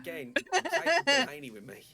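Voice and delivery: high, loud indignant announcement; defiant declaration. Real, not acted. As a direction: fire it back in mock outrage. Defiant threat amid laughter.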